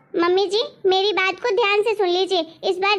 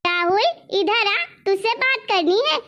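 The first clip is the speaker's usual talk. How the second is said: cross call summoning a son, only mildly raised; mild scolding yell; 2 semitones higher than usual. Acted. Mother summons her son from his room, mildly yelled scolding. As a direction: call him over with a touch of scolding. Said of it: "इतना जोर जोर से क्या चिल्ला रही हो".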